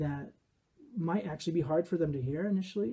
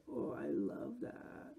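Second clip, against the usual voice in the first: very high, hushed, drawn-out coo; mock gushing in a tiny fry voice; slow, soft baby-voiced parody; Bachelor contestant parody; 8 semitones higher, 10 dB quieter, much slower than usual. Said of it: "and they say".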